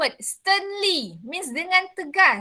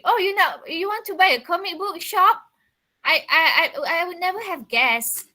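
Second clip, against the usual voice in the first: mock-surprised, higher, teasing; sarcastic; 4 semitones higher than usual. Shown as a demonstration. Teacher showing Barry mocking Mary, sarcastic. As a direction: fake surprise to mock her. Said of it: "Barry is being sarcastic".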